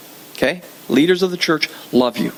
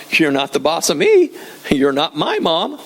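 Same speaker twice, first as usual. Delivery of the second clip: put-on childish retort. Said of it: "my response to her was".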